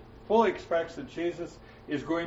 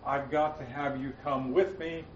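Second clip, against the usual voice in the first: mild mock pleading, pitched up at first; pestering; 3 semitones higher than usual. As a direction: nag insistently, easing off toward the end. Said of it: "He didn't keep pestering Jesus".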